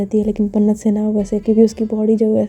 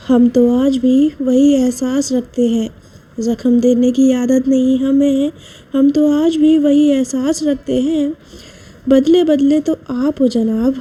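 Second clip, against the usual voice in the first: poetic emphasis; 2 semitones higher, slower than usual. Acted. Reciting shayari.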